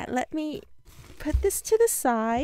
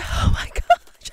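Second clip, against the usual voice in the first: breathy laugh; 3 dB louder than usual. Real, not acted. Giddy over the gift.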